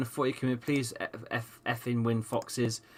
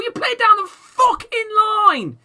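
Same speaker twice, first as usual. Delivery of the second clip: higher, louder yelled order to the players; real angry yell at the team; furious shout; 11 dB louder than usual. Real, not acted. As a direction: bellow the instruction at the screen. Ranting at his team's play.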